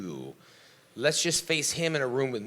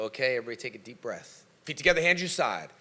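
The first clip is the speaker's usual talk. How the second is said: class instructor. Retold or imitated. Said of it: "would teach class with a hundred people and go".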